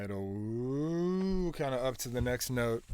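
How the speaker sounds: slow, drawn-out sliding pitch; imitated synth glide. Shown as a demonstration. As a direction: slide the voice up like a gliding synth. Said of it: "where it's like".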